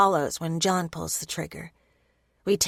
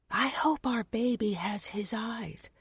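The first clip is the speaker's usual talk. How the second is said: whispered thought; 3 semitones higher, 5 dB quieter than usual. Acted.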